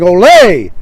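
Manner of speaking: loud, drawn-out Ole; imitated crowd shout. Crowd shouting in the bull ring, imitated cheer. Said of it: "everybody's shouting".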